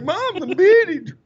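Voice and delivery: high-pitched, thrilled on the phone; retold excited call. Son phoning mom after Embiid breaks down, excited. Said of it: "I'm like".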